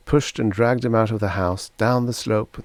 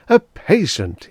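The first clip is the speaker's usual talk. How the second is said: high, loud and slow, overjoyed; delighted exclamation; 9 semitones higher, 7 dB louder, slower than usual. A narrator's reading. Eager doctor greeting his first patient, delighted. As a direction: savour the news with glee. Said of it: "he exclaimed".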